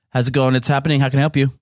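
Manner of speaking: deep producer voice. Pretend. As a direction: answer like a radio producer. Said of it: "The speaker's pretending to be a producer".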